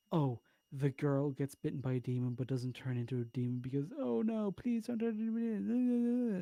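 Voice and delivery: whiny mock voice climbing high; mock the critic's pleading tone. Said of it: "where he says, like".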